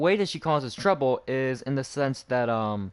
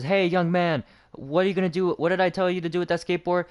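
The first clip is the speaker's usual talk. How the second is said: higher-pitched imitation of a scolding administrator; 6 semitones higher than usual. Administrator stopping a student with a skateboard, mock scolding. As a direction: lightly act out an adult calling a student out. Voicing administrator confronting him in hallway.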